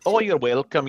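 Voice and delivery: sing-song Welsh lilt; Welsh accent. Shown as a demonstration. Game master showing why Welsh is hard, sing-song Welsh accent. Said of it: "You have to be a little bit sing-song".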